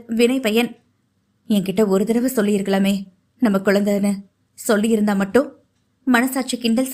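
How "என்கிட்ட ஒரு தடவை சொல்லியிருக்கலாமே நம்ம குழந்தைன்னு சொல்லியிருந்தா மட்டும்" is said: a touch lower, regretful man lamenting alone; a hint of a grieving man talking to himself; lightly voiced Preeth. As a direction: murmur it as a remorseful husband.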